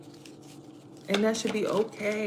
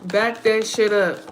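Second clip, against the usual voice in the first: loud warning; 4 dB louder than usual. Retold or imitated. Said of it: "I'm sitting here trying to tell you".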